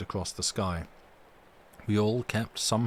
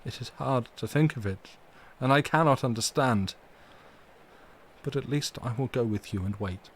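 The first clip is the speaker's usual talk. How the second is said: broken voice; 2 semitones higher than usual. Acted. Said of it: "said in a broken voice".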